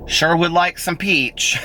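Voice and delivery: high, slow, dismayed mock customer: You don't have peach. Mimicking the customer asking the ice cream shop for peach, high and slow. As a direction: stretch it out like a let-down customer.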